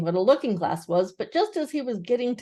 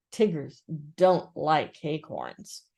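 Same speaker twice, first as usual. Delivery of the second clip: slow, lower, very firm statement; 4 semitones lower, much slower than usual. Acted. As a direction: lay it down slowly, "don't" heavy. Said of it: "he said firmly".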